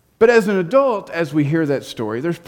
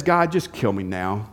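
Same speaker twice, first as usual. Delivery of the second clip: angry Jonah. Retold or imitated. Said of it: "He is so angry".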